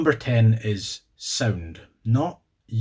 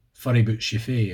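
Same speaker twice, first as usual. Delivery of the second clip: Aberdeen Scots. Retold or imitated. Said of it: "as they would say in Aberdeen".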